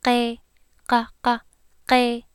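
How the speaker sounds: qe and qa said from the back of the throat near the uvula; Hmong qe. Shown as a demonstration. Teacher demonstrating qe for learners. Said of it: "So the word qe means egg".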